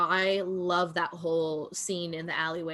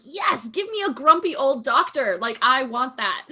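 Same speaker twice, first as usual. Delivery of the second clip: excited; 4 semitones higher, 5 dB louder than usual. Retold or imitated. Eager quoted wish, laughing.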